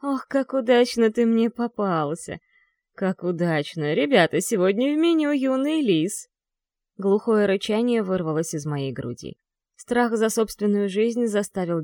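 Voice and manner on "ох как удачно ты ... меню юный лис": gloating hoarse villain; sneering panto villain. Acted. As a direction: relish the catch, gloating. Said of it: "хрипло и зловеще засмеялся". (злорадный хриплый злодей)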